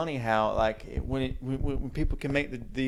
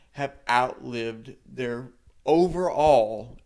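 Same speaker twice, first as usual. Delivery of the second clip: overall slowed and louder; stress on overall; 5 dB louder, slower than usual. Real, not acted. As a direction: lean hard on overall. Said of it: "let me stress the word overall".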